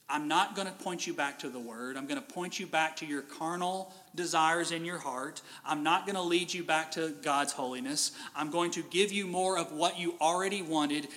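a tempter's hushed, lulling voice; false god's voice. Retold or imitated. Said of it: "that God doesn't sound the same".

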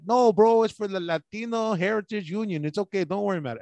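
lightly voiced laid-back comic bro; a hint of imitating a friend's easygoing talk; Gax impression. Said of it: "I don't talk like that".

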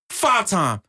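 high, punchy wrestler's boast; Booker T. Retold or imitated. Host quotes wrestling champion to crown number one, Booker T impression. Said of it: "What Booker T say?".

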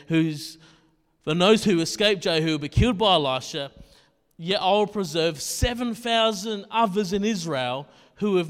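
loud, measured Bible reading to the church; scripture reading. Acted. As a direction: proclaim the verses to the room. Reads scripture aloud to congregation.

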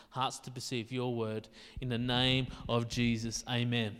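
low, hushed pastoral prayer; spoken prayer. Real, not acted. Leads a prayer.

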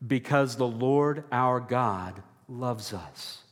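slow, deliberate lead line; call and response. Shown as a demonstration. Preacher leading the church in a slow recited refrain. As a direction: lead the congregation in the refrain slowly.

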